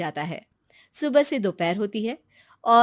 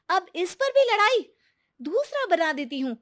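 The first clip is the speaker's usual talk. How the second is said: exasperated; 9 semitones higher than usual. Acted. Sister-in-law exasperated at breakfast quarrel.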